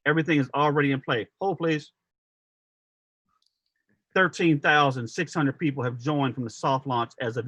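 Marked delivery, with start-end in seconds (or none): 1.4-1.9 polite call-center agent voice; sweet, professional phone-operator hold line; customer service voice. Pretend. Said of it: "with my customer service voice".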